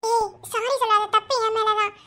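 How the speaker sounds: high-pitched crying voice; tearful self-blame. Acted. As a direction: take the blame through tears. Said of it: "அழுதுட்டு இருக்க".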